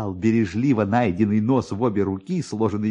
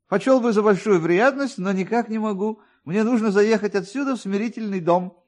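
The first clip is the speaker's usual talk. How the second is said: higher, fast, rambling official voice; chatty police officer; 10 semitones higher than usual. A narrator's reading. Police officer rambles to Kovalyov about finding the nose, higher and fast. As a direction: prattle on like a fussy, self-pleased clerk. Officer declines, hints at bribe.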